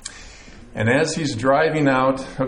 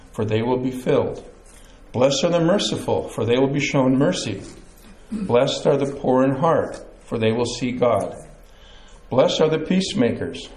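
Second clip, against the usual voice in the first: measured Bible reading, each verse falling at its close; scripture reading. A narrator's reading. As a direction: read the Beatitudes aloud to a congregation. Reads the Bible passage aloud.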